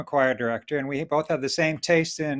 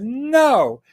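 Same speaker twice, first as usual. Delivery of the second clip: stern refusal; 3 semitones higher, 5 dB louder than usual. Acted. Mother cat forbids the marriage.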